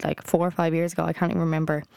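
talking through hiccups. Real, not acted. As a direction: speak with small hiccup catches. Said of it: "Oh, sorry, I have the hiccups".

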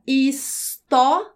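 "história" very slowly as his, tó, ri, a; separated syllables. Shown as a demonstration. Teacher dividing syllables for the class, slow and separated. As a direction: split "história" into four beats, A on its own. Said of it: "vou separar as sílabas de história".

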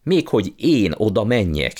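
put-on outraged uncle crying out at the boy's suggestion; indignant outcry. A narrator's reading. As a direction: recoil in offended disbelief. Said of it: "kiáltott fel".

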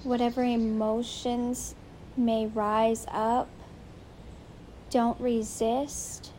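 steady meditation voice with long pauses between phrases; unhurried, soothing meditation lead; guided meditation. Real, not acted. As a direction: gently guide them to settle in.

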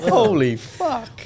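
high, drawn-out laughing holy fuck; laughing exclamation. Real, not acted. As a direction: let it out slow through laughter.

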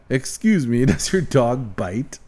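slow, hammed-up French accent; bad French accent. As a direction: play a clumsy French inspector. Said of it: "It's a bad French accent".

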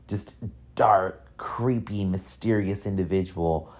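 hushed, half-whispered spooky words; eerie hush. Acted. Hushed spooky whisper describing The Undertaker. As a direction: whisper it like a ghost story.

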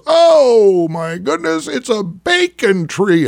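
loud, slow mock yell. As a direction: shout it like a lost hunter. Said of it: "First hunter yells".

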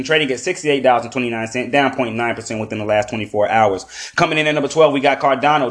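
upbeat market countdown read; top twenty countdown. Acted. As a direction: rattle off the rankings. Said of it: "run through the top twenty coins".

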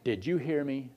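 low, soft parental check; imitating mother. Preacher's mother to her child who did not move, quietly questioning. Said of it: "she said it like this".

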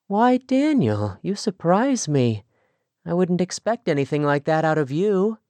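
put-on young Amish girl, mildly playful; lightly voiced young woman. Rachel teasing Daniel.

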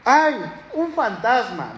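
limp mock fright. Shown as a demonstration. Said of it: "No fue de".

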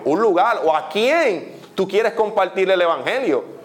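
urging exhortation, pitched a little high; earnest preaching. Acted. Preacher telling believers God opens doors, earnest exhortation. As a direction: press each point home to the congregation.

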